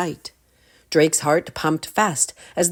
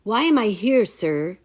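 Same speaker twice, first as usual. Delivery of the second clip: put-on high, louder boyish question; boy asking; 6 semitones higher, 4 dB louder than usual. A narrator's reading. Drake asking the wizard why he was brought. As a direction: ask politely but anxious. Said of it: "Drake asked".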